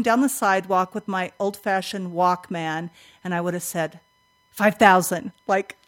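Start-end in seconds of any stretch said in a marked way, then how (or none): 4.5-5.3 "Five thousand" said firmly, a little punched; "Five thousand" set apart as a firm announcement; talking over recording. Shown as a demonstration. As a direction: declare "Five thousand" as if overriding a tape. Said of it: "I'm just gonna vocally say five thousand over the top".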